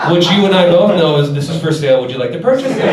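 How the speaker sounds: casual gun seller. Retold or imitated. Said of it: "He went".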